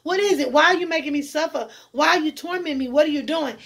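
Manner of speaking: high, fast, desperate pleading; desperate plea. Retold or imitated. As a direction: beg them to end it, panicked. Armed men pointing guns.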